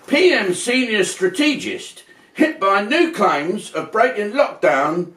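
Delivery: slow, deliberate headline reading; a slow, measured headline read; slow news read. Shown as a demonstration. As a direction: read it like a newscaster. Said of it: "let me read something here".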